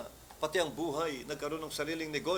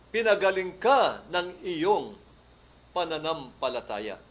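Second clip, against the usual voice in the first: Jesus' words; 5 dB louder, slower than usual. Retold or imitated.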